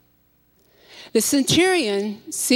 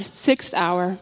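plain reading voice

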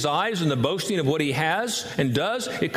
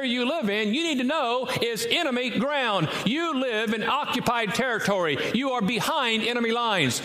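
higher, driving sermon build about enemy lines; preaching at full force; 6 semitones higher than usual. Acted. Preacher warning the congregation, fervent full-force preaching. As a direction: press the warning home, rising to a shout.

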